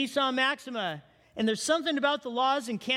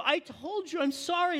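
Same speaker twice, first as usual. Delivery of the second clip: pitched up a lot, pleading "I'm sorry"; pleading husband; 6 semitones higher than usual. Retold or imitated. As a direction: lightly mimic the husband's high, pleading apology. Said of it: "like, emotional".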